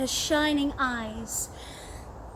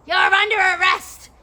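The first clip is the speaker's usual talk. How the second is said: loud, high arrest call; officers shouting; 6 semitones higher, 8 dB louder than usual. Acted. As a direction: bark it as a stern officer. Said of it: "they shouted".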